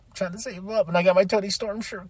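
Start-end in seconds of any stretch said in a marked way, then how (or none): 0.1-0.9 pitched up a little, pleading with self; mock self-pleading; insistent repeat. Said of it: "and I'm like".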